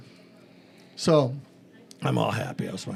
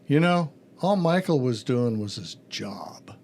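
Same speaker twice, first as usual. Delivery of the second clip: whispering inner voice; 4 semitones lower, slower than usual. Retold or imitated. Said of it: "the little voice goes".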